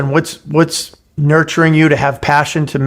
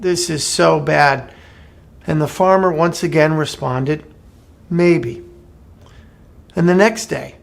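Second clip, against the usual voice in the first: story narration. A narrator's reading. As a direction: tell the fable calmly to listeners. Story read to the listeners.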